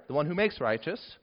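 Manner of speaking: ordinary delivery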